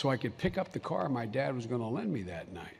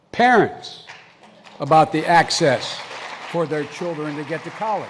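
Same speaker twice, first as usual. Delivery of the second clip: loud, pitched-up emphatic appeal; impassioned call, louder and higher; forceful shout; 3 semitones higher, 12 dB louder than usual. Real, not acted. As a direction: drive the point home hard. Passionate argument, rising volume.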